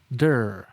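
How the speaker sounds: "Der" with an unrolled American er; der sound. Shown as a demonstration. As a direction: keep the R smooth. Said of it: "it does not roll, it does not bounce".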